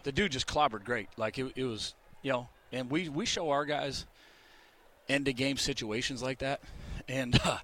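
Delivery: winded after climbing stairs; out of breath. Real, not acted. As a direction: talk while catching your breath. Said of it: "sorry, I'm out of breath walking up these stairs".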